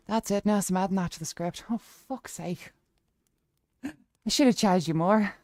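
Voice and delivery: put-on Irish lilt; Irish accent. Streamer telling chat her views on wrestling, Irish accent. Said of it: "Let's go Irish".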